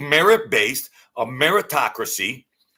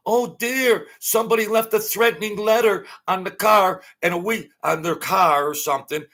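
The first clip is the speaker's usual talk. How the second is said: high, prissy mock anchor voice, much higher; mocking news anchor; 6 semitones higher than usual. Ranting vlogger mocks CNN anchors, high fretful mock voice. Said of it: "C N N and all that".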